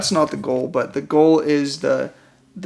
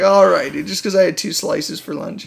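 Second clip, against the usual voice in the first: mock mad. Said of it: "I get all mad".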